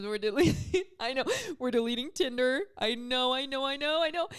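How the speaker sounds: mock excited. Acting couple story excitedly.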